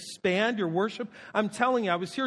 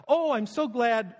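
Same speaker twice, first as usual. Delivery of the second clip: put-on Irish accent; 2 semitones higher, slower than usual. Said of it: "that sounds more like my Irish".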